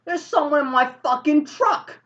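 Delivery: high, loud indignant cry; acted outraged alarm. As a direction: raise the alarm, voice pitched right up. Driver alarmed about his truck.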